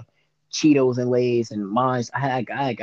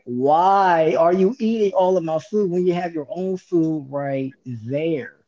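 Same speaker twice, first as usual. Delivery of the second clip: exasperated plea; 4 semitones higher, slower than usual. Retold or imitated. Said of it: "I just be like".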